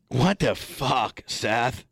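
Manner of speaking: slow exasperated mock. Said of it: "that's what I'm gonna say here".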